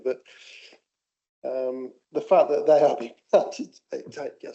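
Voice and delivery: loud talking, words broken up by laughing. Speaker in a meeting giving their view on a proposal, laughing while speaking. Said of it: "sorry, I'm laughing this".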